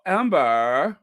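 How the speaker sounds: put-on "Amber" said like a Valley girl; Valley girl accent. Shown as a demonstration. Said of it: "I'm gonna say it like a Valley girl".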